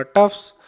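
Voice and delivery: "टफ्स" with a voiceless s after f; S sound at the end. Shown as a demonstration. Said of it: "इसलिए उसका उच्चारण होगा". ("टफ्स" के अंत में स की आवाज़)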